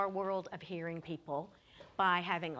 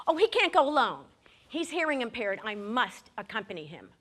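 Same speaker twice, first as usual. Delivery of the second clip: insistent protest; 6 dB louder than usual. Retold or imitated. Ginger insisting to the officers, loud protest. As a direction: plead to go along.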